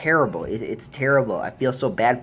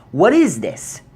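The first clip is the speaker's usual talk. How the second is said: exasperated disbelief; 6 semitones higher, 6 dB louder than usual. Real, not acted. Another burst of disbelief.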